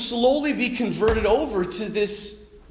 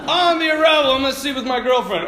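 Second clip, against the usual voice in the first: higher, louder mock bravado; a lightly hammed-up boast; mock teen boast; 6 semitones higher, 4 dB louder, faster than usual. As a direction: parody a cocky teen. Mocking kid voice.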